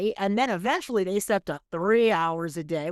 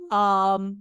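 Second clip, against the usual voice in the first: coughing, under the weather; hacking cough mid-sentence; coughing fit; 6 dB louder than usual. Real, not acted. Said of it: "You will hear me hacking".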